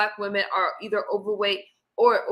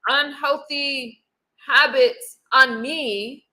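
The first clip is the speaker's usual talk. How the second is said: "unhealthy" and "habits" drawn out slowly; slow stressed "unhealthy habits"; much slower than usual. Acted. Slow stressed words in a plea.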